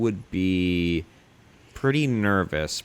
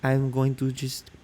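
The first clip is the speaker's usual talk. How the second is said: French maid; 4 semitones higher than usual. Retold or imitated. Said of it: "That's what a maid would say".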